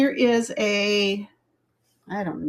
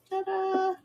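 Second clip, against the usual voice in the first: ta-da; 11 semitones higher, 7 dB quieter than usual. Real, not acted. Finished fixing the necklace.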